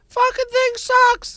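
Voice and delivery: very high, loud character voice. Joking about what Mickey Mouse will say to a t-shirt: Mickey Mouse voice. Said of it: "Except he'll go".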